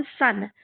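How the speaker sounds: सन as one short syllable with an s sound; teacher's clear model of सन; TION as san. Shown as a demonstration. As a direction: say सन for the written ending TION. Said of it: "उसको पढ़ते हैं हम".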